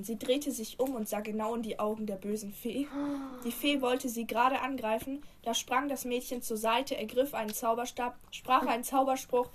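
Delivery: measured storybook reading; story narration. Acted. Reading an old school fairy tale to a friend, narrating.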